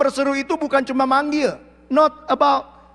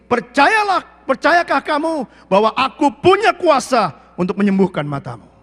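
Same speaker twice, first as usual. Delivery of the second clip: Jesus asking; 4 semitones higher, 5 dB louder than usual. Acted. Jesus voiced asking the blind.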